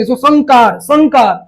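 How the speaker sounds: संकार with a back ng before का; nasal ng sound. Shown as a demonstration. Teacher repeats the model word, संकार with ng. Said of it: "क का पांचवा अक्षर अ होता है".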